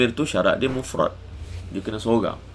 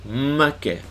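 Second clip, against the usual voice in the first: Kelantan accent Makan with a held, doubled initial m; 3 semitones higher than usual. Shown as a demonstration. Teacher contrasting Kelantan makan for students, Kelantan accent. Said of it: "Jadi makan, makan. makna berbeza".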